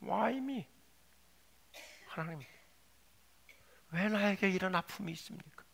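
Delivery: softly questioning God; subdued protest. Acted. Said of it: "하나님께 이런 항변을 하기도 해요". (나직하게 항변하듯)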